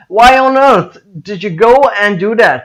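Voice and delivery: EARTH hit hard and high, with mock anger; angry stress on EARTH. Shown as a demonstration. Teacher showing learners how to ask it seriously, angry stress on EARTH. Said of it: "उसके ऊपर आपको थोड़ा सा गुस्सा करना पड़ेगा".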